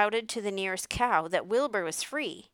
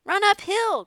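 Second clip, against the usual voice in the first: very high, loud sheep cry; 13 semitones higher, 9 dB louder than usual. A narrator's reading. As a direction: shout advice like an excited sheep. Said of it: "cried the sheep".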